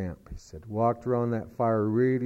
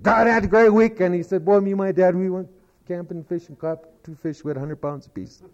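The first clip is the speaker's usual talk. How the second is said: put-on excited boy; 7 semitones higher, 4 dB louder than usual. Boy eagerly tells principal.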